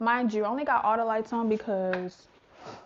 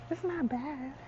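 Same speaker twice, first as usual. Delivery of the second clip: softer hushed talk, not a true whisper; quiet voice, faster on the second half; 2 semitones higher, 6 dB quieter than usual. Real, not acted. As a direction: keep it down so the neighbours don't hear. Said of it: "so that's why I'm whispering".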